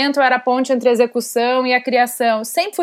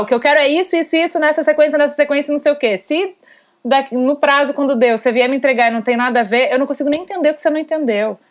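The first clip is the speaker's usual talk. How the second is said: higher-pitched, hurried rattle of demands; bulldozing impatience; 4 semitones higher, faster than usual. Acted. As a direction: fire off demands like a tractor ploughing through. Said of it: "eu faço que nem um trator". (impaciência atropelada, como um trator)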